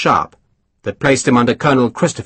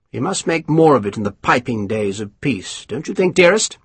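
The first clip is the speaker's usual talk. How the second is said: lightly voiced self-satisfied officer; a hint of a smug English colonel; pompous colonel; 4 semitones higher than usual. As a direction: savour each word, pleased with yourself.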